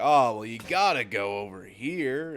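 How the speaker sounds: mock an enthusiastic local's tip; enthusiastic waiter. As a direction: play up the waiter's keenness. Waiter eagerly recommending a place.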